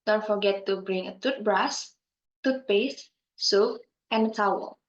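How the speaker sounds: "toothbrush" lifted, closing "towel" falling to finish; list intonation. Shown as a demonstration. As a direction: separate the items, dropping on "and a towel". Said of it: "falling intonation".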